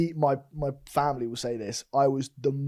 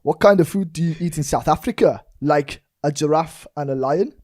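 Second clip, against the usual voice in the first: put-on South African accent; 2 semitones higher, 4 dB louder than usual. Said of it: "Oh, God, all right".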